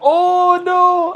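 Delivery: high, loud cry of dismay; raging gamer. Real, not acted. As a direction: yell it as the chance slips away. Chance missed in game.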